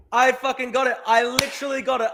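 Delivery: high, thrilled bragging; real pumped-up boast; excited. Real, not acted. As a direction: crow over the win. Celebrating a correct guess.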